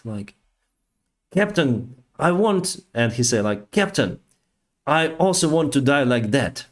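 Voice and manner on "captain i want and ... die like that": much higher, fervent wish; imitating a first officer longing for it; retold eager officer. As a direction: say it like a dream come true. Officer wishes same death.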